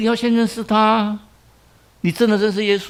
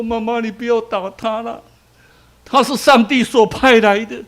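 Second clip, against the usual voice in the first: put-on child pleading.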